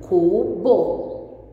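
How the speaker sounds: "Cubo" split slowly into cu and bo; teacher blending cu with bo in "Cubo"; syllable by syllable. Shown as a demonstration. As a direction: sound out "Cubo" in two drawn-out syllables. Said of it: "a nossa sílaba cu com a nossa sílaba bo".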